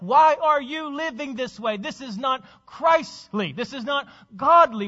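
forceful admonishing questions, punched openings; confronting fellow believer. Acted. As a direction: challenge them with insistent, preacherly rebuke. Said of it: "a brother or sister to come along".

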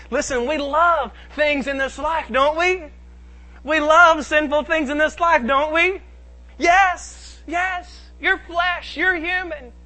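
high-pitched, pressing rhetorical questions; insistent preaching. Real, not acted. Preacher to congregation on loving sinful things, insistent preaching.

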